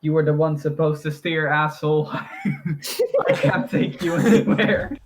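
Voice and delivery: exasperated retort breaking into laughter; mock indignant tiger. Game master as the confused tiger scolds its rider, mock indignant.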